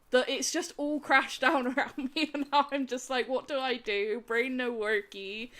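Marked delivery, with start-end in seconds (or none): 3.3-5.5 mock whimper. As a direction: whine it out like a fried brain. Retelling exhausted crash.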